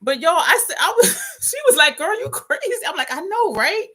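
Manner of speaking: high-pitched retelling through laughter; helpless laughter. Real, not acted. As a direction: struggle to retell it while cracking up. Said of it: "let me stop, 'cause I'm really about to pee".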